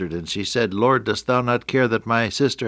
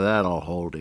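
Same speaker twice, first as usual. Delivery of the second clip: muttered under the breath, much lower; 6 semitones lower, 5 dB quieter than usual. Retelling what the radio announcer said after putting him on air: under his breath. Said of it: "he said under his breath".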